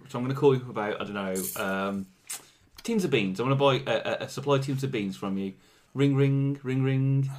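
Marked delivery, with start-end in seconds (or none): 5.9-7.3 phone ringing imitation. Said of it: "I'm ring ring".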